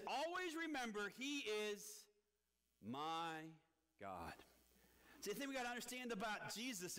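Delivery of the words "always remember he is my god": slow, stressed scripture reading; reading scripture slowly. Shown as a demonstration. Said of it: "the last part of it says this".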